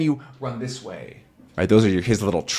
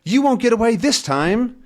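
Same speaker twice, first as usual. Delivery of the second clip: Tintin's chase line; 11 semitones higher than usual. Acted. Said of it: "he starts to run after them".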